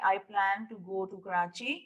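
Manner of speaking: very slow, with "book" split into b, o, o, k; teacher modelling a word game slowly; slow classroom demo. Shown as a demonstration. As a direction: model the suitcase game for young children. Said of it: "आप कहें कि".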